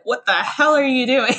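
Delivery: mock-scold yourself through a laugh; laughing disbelief. Old frugal self scolding spending, with a laugh. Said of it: "my old self would be like".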